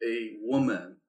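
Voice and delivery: "woman" set apart and slightly stressed. Retold or imitated. Friend's texted correction of amen, "woman" stressed. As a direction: lean on "woman" as if capitalized. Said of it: "capitalized W O M".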